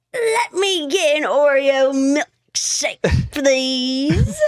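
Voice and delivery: a slow whining plea; mocking whiny voice. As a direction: whine it out like a child. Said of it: "I did not say it like that".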